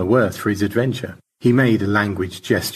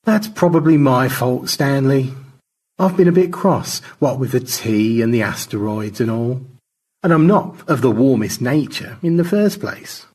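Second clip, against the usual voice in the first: a slightly raised character voice, owning up; lightly voiced apologetic George; 4 semitones higher, 4 dB louder than usual. Astronaut owning up to his crewmate, lightly voiced apology.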